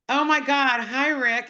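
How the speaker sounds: gushing like a starstruck fan; retold starstruck gush. Turning round to meet Rick, a high excited starstruck hello. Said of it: "I go".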